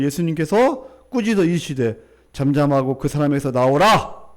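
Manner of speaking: loud, projected Bible reading; scripture reading. A narrator's reading. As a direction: read it out firmly to the congregation. Reads scripture aloud.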